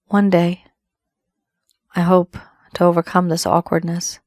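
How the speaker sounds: unhurried, lightly acted intimate love message; heartfelt love confession. Reader speaks as the secret admirer to Pisces, heartfelt confession.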